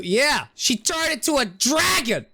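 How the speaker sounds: high excited blurt; excited exclamation. Real, not acted. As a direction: blurt it out, thrilled. Excited answer to in-game question.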